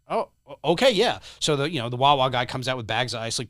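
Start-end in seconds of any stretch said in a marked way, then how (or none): 0.1-1.2 flustered bystander. Retold or imitated. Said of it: "He's like".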